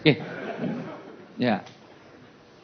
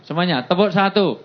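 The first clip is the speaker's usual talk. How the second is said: aba-aba tepuk; 6 semitones higher, 4 dB louder than usual. Real, not acted. Memimpin tepuk peserta.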